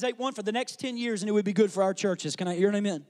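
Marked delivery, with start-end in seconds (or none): none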